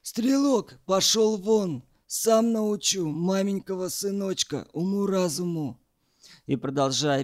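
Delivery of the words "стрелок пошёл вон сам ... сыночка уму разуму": a touch of a barked order; mild narrated bark, higher. A narrator's reading. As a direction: snap the order out at him. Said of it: "но дед рявкнул".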